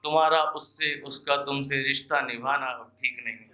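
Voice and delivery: earnest poetic recital, repeating each line for effect; ghazal recitation. Acted. Poet warning listeners in verse, earnest recital. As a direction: plead gently with the crowd through the verse.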